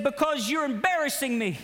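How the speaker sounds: high donkey line broken by laughter; the donkey embarrassed by its master, laughing. Acted. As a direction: laugh through the donkey's complaint.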